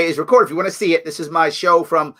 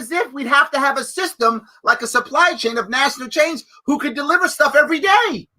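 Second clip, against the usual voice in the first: sarcastic; 7 semitones higher than usual. Retold or imitated. Sarcastic mock of opponent.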